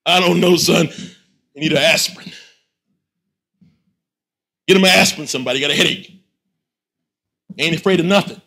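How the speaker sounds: a father shrugging it off to his son; weary father. Acted. Abu, what was he talking about?.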